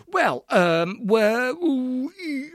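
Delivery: flustered stammering, pitch climbing; blustering. A narrator's reading. Caught outside Floriati's house, blustering for an excuse. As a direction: stall for words, caught out. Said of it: "I blustered".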